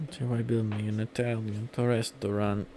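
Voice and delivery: put-on slow, half-successful Italian accent; amateur Italian accent; shaky Italian accent attempt. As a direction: lightly try an Italian accent, stretching the words. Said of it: "That's not good".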